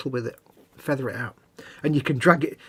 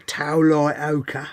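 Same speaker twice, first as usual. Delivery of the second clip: drawn-out name; 3 dB louder, much slower than usual. Pretend.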